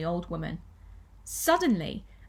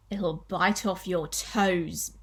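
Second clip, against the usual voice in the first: slow, drawn-out mock threat; menacing warning; 2 semitones lower, much slower than usual. Husband frightening his wife about the creature, menacing warning. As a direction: stretch it out slowly to scare her.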